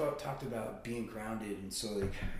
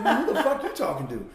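retold shout; 9 semitones higher, 13 dB louder than usual. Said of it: "I looked down, I'm like".

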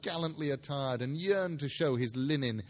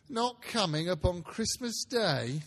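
disappointed father; 5 semitones higher, slower than usual. Acted. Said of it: "with a sudden declension in his high spirits".

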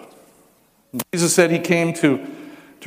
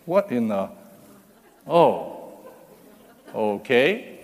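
startled then resigned; 3 dB quieter, slower than usual. Retold or imitated.

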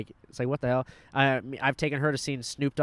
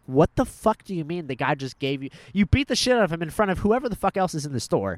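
louder, higher retold disbelief; incredulous outburst; 4 semitones higher, 5 dB louder than usual. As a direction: act out appalled disbelief at a grandpa's story. Retells own stunned reply to grandpa.

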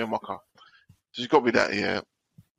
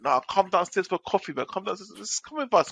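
colleague; 5 semitones higher than usual. Retold or imitated. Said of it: "one of my colleagues was like".

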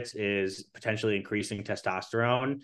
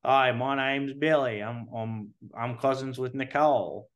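lightly put-on Australian accent; just a hint of an Australian accent; understated mock Australian accent. Shown as a demonstration. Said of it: "like, a really light Australian accent".

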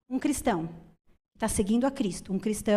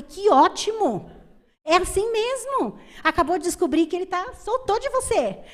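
delighted; 9 semitones higher, 5 dB louder than usual. Retold or imitated. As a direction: cheer the worried mother on. Cheerful reply to the mother.

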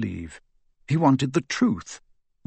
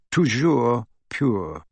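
French pronunciation; much slower than usual. A narrator's reading. Reading French motto.

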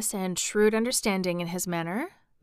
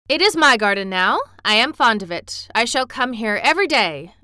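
put-on loud, lordly young master; emphatic proclamation; announcing; 3 semitones higher, 9 dB louder than usual. A narrator's reading. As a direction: proclaim it firmly like a little rajah. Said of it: "announced Colin".

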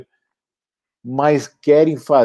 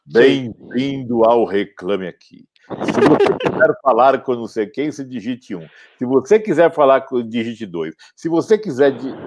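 phone menu voice; 2 semitones higher than usual. Retold or imitated. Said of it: "aquela ura?".

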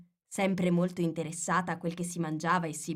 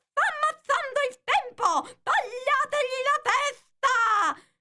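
much higher, louder shrieking queen; furious shout; 6 dB louder than usual. Retold or imitated. Hatter imitates the Queen screaming for his head, shrill and loud. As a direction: scream the order to behead. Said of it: "la regina ha cominciato a urlare".

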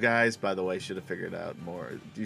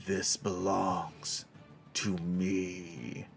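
dark whisper behind you; 3 semitones lower, 7 dB quieter, much slower than usual. Acted. Dragon voice from the darkness.

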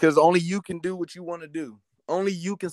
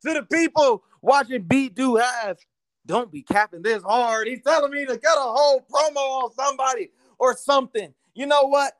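wrestling promo; 3 semitones higher than usual. Acted. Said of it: "could you cut us a promo".

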